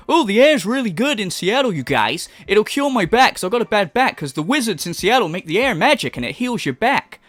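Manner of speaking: lightly mocking, lilting imitation; mock quote. Commentator ridicules the man's reasons for moving, mocking. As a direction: parody his excuses with a mild put-on lilt. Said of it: "all on the basis of".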